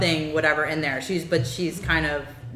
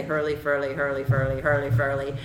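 mock Irish accent; 3 semitones lower than usual. Shown as a demonstration. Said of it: "all you have to do is say".

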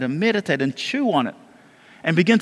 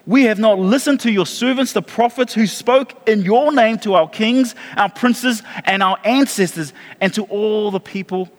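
slow, weighty confession read aloud; earnest prayer reading; 2 semitones higher than usual. Acted. Pastor reading Daniel's confession prayer to the congregation, slow and solemn. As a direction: let each line of the confession land slowly.

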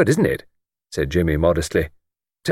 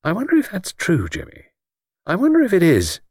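higher, wondering and deliberate; slowly; 9 semitones higher than usual. A narrator's reading. Luke puts his doubt to his friend, slowly. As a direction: wonder it aloud, unhurried. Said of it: "stopped and then said slowly".

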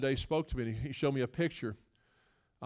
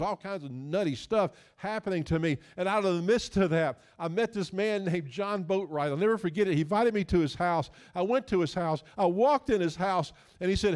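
animated preaching testimony; 5 semitones higher, 4 dB louder than usual. Real, not acted. Preaches his testimony with energy.

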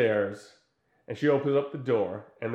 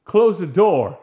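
brusque order; 6 semitones higher, 10 dB louder, much slower than usual. Retold or imitated. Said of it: "he says".

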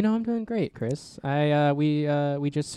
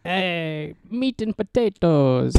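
put-on Irish accent; 4 semitones higher, much slower than usual. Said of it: "That's an Irish".

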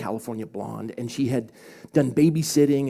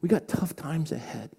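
choked up; 3 semitones higher than usual. Real, not acted. Pastor encouraging listeners after his testimony, choked up. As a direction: encourage them while holding back tears. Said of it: "I'm still choked up".

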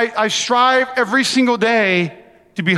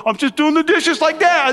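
put-on innocent kid voice; 6 semitones higher than usual.

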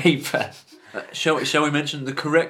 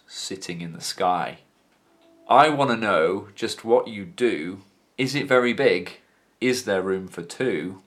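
slow, measured recital of pop lyrics; spoken lyric reading; 3 semitones lower, slower than usual. Acted. Host reading the first verse to a co-host, deliberate spoken recital. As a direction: recite it line by line like a poem.

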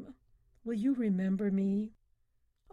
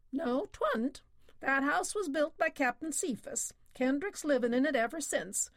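put-on higher, crusty old Yankee captain; old sea captain; 5 semitones higher than usual. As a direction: play the stubborn old shopkeeper setting him straight.

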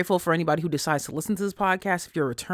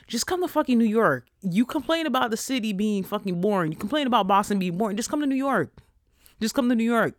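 exasperated rant; 5 semitones higher than usual. Real, not acted. Ranting at friends.

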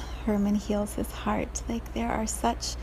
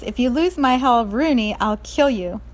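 sister yells; 3 semitones higher, 5 dB louder than usual. Acted. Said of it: "the sister yells".

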